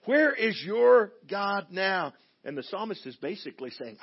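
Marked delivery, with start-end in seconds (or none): 0.0-2.1 high, loud, slow jeering; mocking taunt. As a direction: taunt him like a scoffing crowd. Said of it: "the voices around me are saying".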